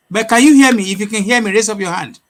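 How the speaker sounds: calling out loud and high; to someone hard of hearing. Real, not acted. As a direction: raise your voice to reach him. Calling to guest on bad line.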